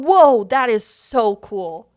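big impressed gasp of admiration; awed onlooker. Acted. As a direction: act out a slow, loud, impressed reaction. Voicing awestruck onlookers in a story.

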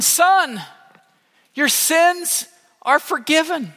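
Jesus' words proclaimed high and slow to the crowd; proclaiming Jesus. Acted. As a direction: announce forgiveness slowly from the pulpit.

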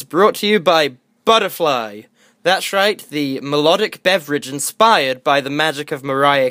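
hammed-up sponsor read. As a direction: sell it like a cheesy ad.

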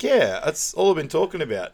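high, loud, exasperated retort; mock exasperation. Simon answering Lucy about his girlfriend, mock exasperated. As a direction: imitate someone stating the glaringly obvious.

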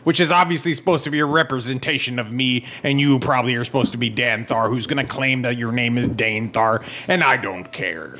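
a hint of a stiff, polite plea; lightly voiced complaining cleric. Cleric asking the god to stop chipping, lightly voiced. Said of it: "I go up and say".

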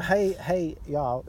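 put-on hammy southern American accent. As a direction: drawl hey y'all like a Texan. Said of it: "worst American accent".

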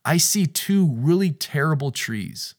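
a touch of teasing divine voice; God chuckling at the disguise; lightly voiced amused God. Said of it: "God is saying".

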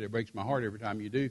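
low, soft, quick hurt; understated retold heartbreak; retold tearful confession. Wife telling fiancé it hurts her, subdued sorrow. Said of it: "she's just sobbing".

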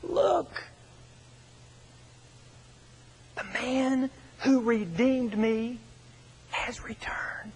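high, held-back calling out that fades at the end; retold joyful shout. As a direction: imitate an overjoyed cry, high, then slow and drawn out. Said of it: "he shouts at the top of his lungs".

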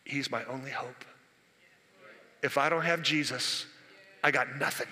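hushed, all hope on him; quiet desperate plea; desperate woman. Acted. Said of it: "the lady goes".

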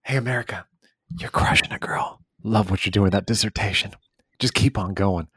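playful pep talk with a whispered aside; mock hype-girl voice; hyped inner cheerleader. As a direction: cheer yourself on, half-whispering "you're crushing it". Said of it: "where you get this like".

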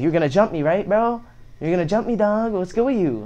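needling, pitch lifted on each jab; retold taunting challenge. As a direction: re-enact goading someone into a fight. Confronting kid who threatened him.

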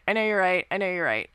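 talking himself into giving them up; resigned, fading. Acted. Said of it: "he sighs, closes his eyes".

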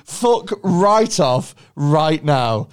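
slow, emphatic refusal; indignant refusal. Acted. Claimant refusing the pollen job, slow and emphatic. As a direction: spell out the refusal word by word. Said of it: "You'd be like".

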